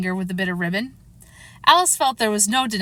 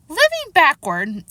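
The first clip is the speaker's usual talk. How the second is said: higher, louder, drawn-out echo in astonishment; astonished; 7 semitones higher, 5 dB louder, slower than usual. A narrator's reading. Alice repeats the Queen's words in great astonishment. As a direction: repeat it slowly in amazement. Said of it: "repeated in great astonishment".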